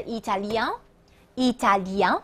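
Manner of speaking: italien ending on a nasal "an" sound; slow French Italian with nasal final vowel. Shown as a demonstration. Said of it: "发的是安这个音".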